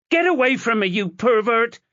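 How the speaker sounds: high, loud furious yell; girl screaming at a man touching her hair; furious shout. Acted. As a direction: shove him off with your voice. Chloe slaps his hand away.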